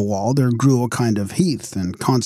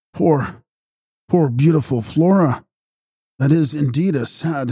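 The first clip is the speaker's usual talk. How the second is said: higher-pitched, understated lament; pitying, mildly grieving cry; 4 semitones higher than usual. A narrator's reading. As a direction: mourn her gently in a raised pitch. Brother laments his stricken sister.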